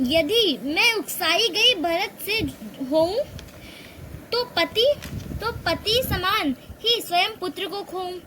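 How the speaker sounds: slow, measured verse reading; poem recitation. Acted. Hindi teacher reciting Kaikeyi's verses to her students, slow and measured. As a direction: recite each line of the poem with weight.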